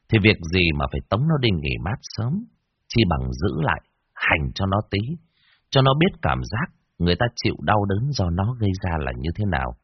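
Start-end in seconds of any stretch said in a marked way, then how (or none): none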